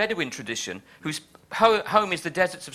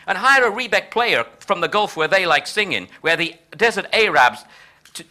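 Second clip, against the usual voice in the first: George Bush, appalling Texan; 4 semitones higher, 4 dB louder than usual. Acted. Triumphant president calling his administration to party, mock Texan accent. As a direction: crow it in a hammed-up Texan accent. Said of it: "I apologize in advance for my appalling Texan accent".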